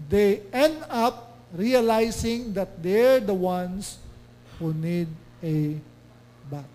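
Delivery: very slow verse reading; scripture reading. Acted. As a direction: let the verse land slowly. (napakabagal na pagbasa ng talata)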